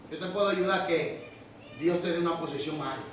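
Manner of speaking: a hint of a sly, seductive devil; tempting whisper-like lure. Lucifer tempting the angels.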